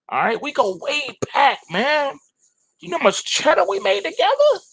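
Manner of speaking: high-pitched hype about glory days; excited bragging. Real, not acted. Bragging about past with silver.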